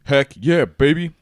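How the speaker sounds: loud, high hyped-up cheer; excited cheer. Real, not acted. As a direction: whoop it like a hype man.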